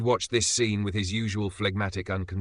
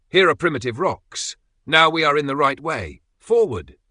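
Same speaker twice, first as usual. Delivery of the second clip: higher, louder, rising to a triumphant call; excited cry; 7 semitones higher, 8 dB louder than usual. A narrator's reading. The professor crying out to the others, triumphant. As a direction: announce the find with rising triumph.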